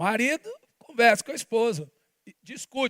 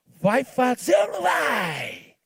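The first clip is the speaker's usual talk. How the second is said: arrogant demand; slower than usual. Acted. Mock demand on God.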